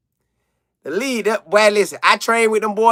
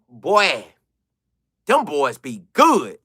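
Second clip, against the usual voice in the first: usual speaking voice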